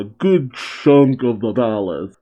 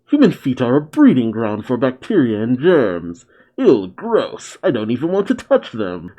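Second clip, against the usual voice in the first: lightly voiced mad scientist. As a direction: lightly play the disgusted mad doctor. Voices Mueller reading manga.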